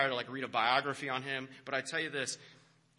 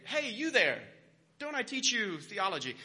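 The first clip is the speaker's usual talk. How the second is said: imagined professor's hail; 5 semitones higher, 3 dB louder than usual. Acted.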